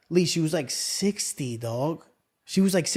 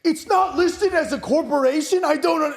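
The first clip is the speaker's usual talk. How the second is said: phone voice; 8 semitones higher than usual. Retold or imitated. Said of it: "I'm on the call like".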